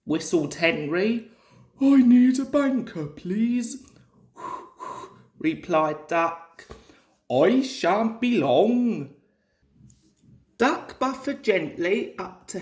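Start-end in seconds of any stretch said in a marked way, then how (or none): 1.8-3.8 higher and louder, calling out for a banker; Henry's voice calling. Acted. Henry calls to Duck for help. 7.3-9.1 Duck's voice. Acted. Duck answers Henry.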